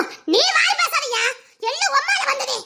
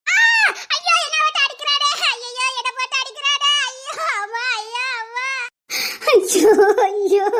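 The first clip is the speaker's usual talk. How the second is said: hammed-up wailing. Wife cries out being hit.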